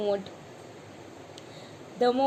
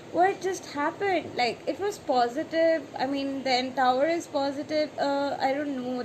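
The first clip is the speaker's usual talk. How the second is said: imitating confusion, pitched higher; mock bewilderment; 3 semitones higher than usual. Reader confused by the Tower card, mock bewildered. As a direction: play it puzzled and lost. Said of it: "Then you see Tower card and you're like".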